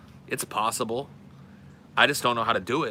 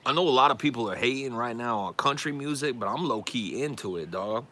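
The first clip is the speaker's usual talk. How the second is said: little rapper persona; 3 semitones higher than usual. Pretend. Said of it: "you gotta say low-key a lot".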